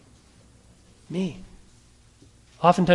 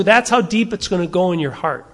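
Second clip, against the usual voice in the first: ordinary talk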